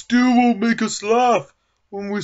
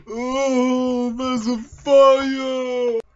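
panicked cry; much slower than usual. Acted. House catches fire, panic.

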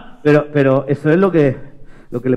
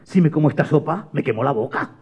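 worried thinking; 4 semitones lower, 6 dB quieter than usual. Acted. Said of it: "María estaba pensando".

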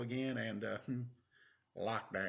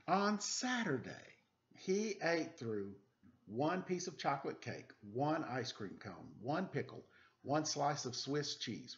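put-on reading to children; 3 semitones higher than usual. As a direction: read it like a bedtime story for little kids. Reads picture book aloud to children.

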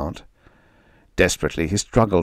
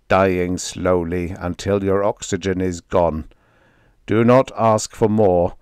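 stern alien judge. Acted. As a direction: pronounce sentence like a cold machine. Martian speaker pronounces judgment.

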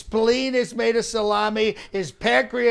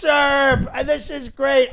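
a higher, louder cry of the donor's name; excited shout; 6 semitones higher, 7 dB louder than usual. Acted. Comic as Trump greeting a donor, excited shout. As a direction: hail the donor like a winner. Thrilled at a donation.

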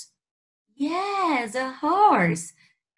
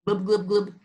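fish imitation; 4 semitones lower, 3 dB quieter, faster than usual. Imitates fish for guessing game.

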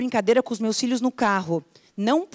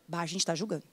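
much softer, lower self-correcting mutter; caught-out aside; 6 semitones lower, 12 dB quieter, faster than usual. Retold or imitated. Coach catching herself judging, dropped soft and low. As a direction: drop the voice and catch yourself.

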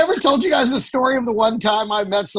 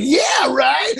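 higher-pitched acted-out reaction; mock exclamation; 5 semitones higher than usual. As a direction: call it out, pitched up. Heckled comic's reaction acted out.

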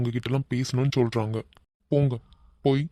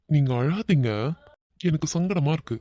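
laughing while talking; 2 semitones higher than usual. Acted. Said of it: "சிரிச்சுட்டே சொல்லுவல்ல".

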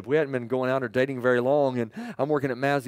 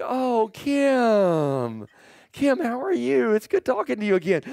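much higher, gushing hello; mock delighted greeting; 9 semitones higher, slower than usual. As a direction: overdo the friendliness to the girlfriend, pitched up. Acted sudden friendliness to girlfriend Kim.

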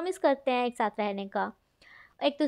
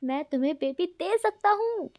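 shouting; 6 semitones higher than usual. Acted. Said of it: "विंग चिल्लाकर बोलता है".

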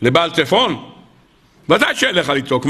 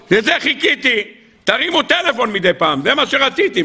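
higher-pitched mock exclamation; acted eager reproach; 6 semitones higher than usual. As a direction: play a long-awaited call finally coming, pitch lifted. Acted God, pleased they finally call. (קריאה מוצגת של ציפייה שהתממשה)

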